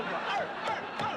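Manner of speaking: high yappy arf barks; high imitated dog barking; mock dog barks. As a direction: bark like a little dog.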